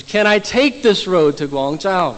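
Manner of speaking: slow, emphatic retold question; a little frustrated. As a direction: spell out the question with mild impatience. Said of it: "He's a little frustrated at this point".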